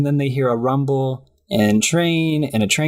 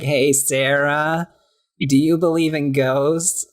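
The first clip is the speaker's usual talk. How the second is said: slow, drawn-out character voice; creeping, deliberate question in a put-on voice; Jason Funderburker; 3 semitones higher, slower than usual. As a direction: imitate an odd kid, stretching the words. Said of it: "every single one of Jason Funderburker's lines".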